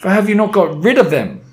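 loud, high witch tirade; high-pitched, imperious shriek; screamed. A narrator's reading. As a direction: scream it in outrage at your underlings. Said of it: "she screamed".

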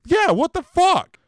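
high, loud and drawn-out disbelief; exasperated yell. Real, not acted. Co-host agreeing the picks are rigged, exasperated yell. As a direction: throw your hands up in outrage. Hosts venting over losing picks.

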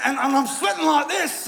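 T D Jakes. Shown as a demonstration. Pastor piling up impressions for the congregation, strained mock preaching. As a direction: pitch it up, mock straining through a smile. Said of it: "sweat a little bit like T D Jakes".

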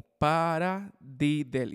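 PARADIDDLE broken slowly into "para" and "diddle"; split into parts. Shown as a demonstration. Teacher explaining what paradiddle is known as, split into parts. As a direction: stretch paradiddle out, part by part. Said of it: "el diddle se le, se le otorga al doble".

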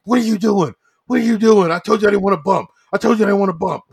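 high, loud staged wrestling outrage; mock angry confrontation. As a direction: lay into him like a wrestler starting a fight. Acted staged quarrel between wrestlers.

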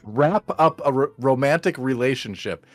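retry through a numb lip; careful words, numb mouth. Real, not acted. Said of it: "the left side of my mouth is still very numb".

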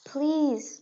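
pleading whisper; whispered begging. A narrator's reading. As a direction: beg in a hushed breath. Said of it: "Delphi begged".

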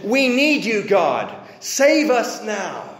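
urgent prayer. Acted. People praying for divine help and salvation, urgent. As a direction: plead urgently to God. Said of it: "which is an urgent prayer".

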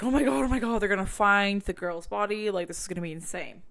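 blurting out an oh-my-god reaction; excited disbelief. Retold or imitated. Reading about the car trunk, gasping oh my God. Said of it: "I was like".

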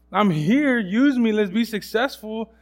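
loud, slow plea; pleading prayer. Retold or imitated. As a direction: press God slowly, half demanding.

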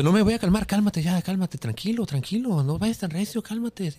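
high, urgent back-and-forth quote; agitated acted quarrel. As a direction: act out a heated refusal and pleas to calm down. Acted quarrel with the dream woman.

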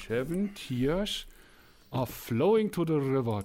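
slowly spelling out flowing; slow careful. Real, not acted. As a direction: read it out slowly to check. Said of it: "Moment mal hier".

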